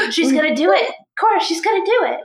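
fast, eager and rising; can't wait to see it; excited. Real, not acted. Excited about the spell attempt.

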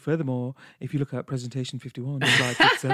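lightly mocked presenter voice; a hint of stuffy slideshow formality; overly professional. Mocking own early podcast voice, overly professional. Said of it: "I was overtly pro-, professional".

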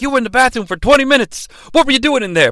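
high, fast prying jab; the Cat grilling Glenn about the bathroom; suspicious Cat. Retold or imitated. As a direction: needle him, quick and nosy. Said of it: "He's like".

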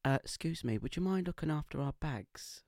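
light Essex voice; Essex accent. Retold or imitated. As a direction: play the Essex bloke lightly. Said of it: "I'll try and do my best Essex accent".

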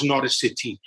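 put-on accidental touch of Welsh accent. Host saying whose match he will watch, in a stray Welsh accent. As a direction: slip into a light Welsh accent. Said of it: "did that with a Welsh accent".

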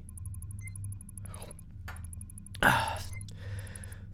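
drawn-out breathy sigh; long sigh. Acted. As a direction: let out a slow sigh. After talk of absent father.

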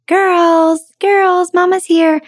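high sing-song call to the hens; lilting high call, girls girls; calling chickens. Retold or imitated. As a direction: call out sweetly like a mother hen.

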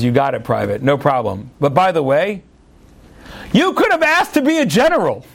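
a hint of a chuckling emperor; amused Tsar. Tsar answering the wounded private, lightly amused.

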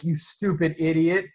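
a hammed-up scold at the horse; mock yelling at horse. Imitating Atreyu yelling at his dying horse. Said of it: "starts yelling at the horse".

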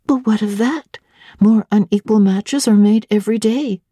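curious governess pressing for details; young Jane. Acted.

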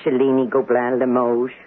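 "Cellini", "Gobelin", "Limoges" each given a small, proud stress; stressing each name. Acted. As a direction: show off the names Cellini, Gobelin and Limoges by leaning lightly on each. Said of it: "Just listen how I emphasize".

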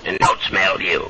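quick cheeky puppet voice; low, fast wisecrack; Froggy voice. Acted. Heckler mocks the teller.

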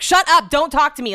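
high, loud angry snap; mock-furious shout at a pestering husband; irritable snap. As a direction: bite his head off, fed up and on edge. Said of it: "irritable on my period, like, just freaking the fuck out".

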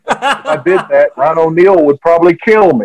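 chuckling through the punchline; laughing. Real, not acted. Telling the interviewer the kiss story, laughing through it. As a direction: laugh as you tell the joke.

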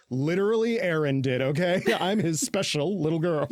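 teasing put-on voice; mocking quote. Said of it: "his response was".

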